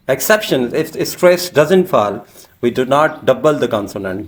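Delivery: slow, deliberate dictation pace; slow rule reading. Shown as a demonstration. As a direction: spell out the rule slowly for the class. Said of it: "teacher reading rule slowly".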